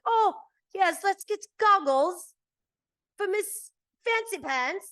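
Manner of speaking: high, loud, slow snooty mockery; hammed-up high snooty voice; mock posh voice. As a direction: sneer it like a snobby producer. Mocking producers' imagined reply.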